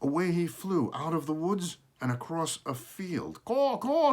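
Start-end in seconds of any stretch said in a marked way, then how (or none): 3.4-4.1 high loud caw rising at the end; caw, caw as if asking; crow caw. A narrator's reading. Smokey the crow calling across the field, rising caw. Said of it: "said Smokey".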